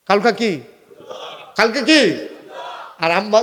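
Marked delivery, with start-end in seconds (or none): 1.6-2.3 sharper repeated question to the crowd; insistent call-and-response question; emphatic prompt. Real, not acted. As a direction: press the congregation for an answer. Repeats prompt to congregation, more forcefully.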